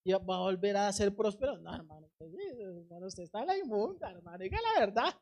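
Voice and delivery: imitated scoffer, swinging pitch; mocking. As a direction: play someone making fun of a hopeful believer. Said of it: "gente que se le va a burlar". (burla imitada, con tono de incredulidad)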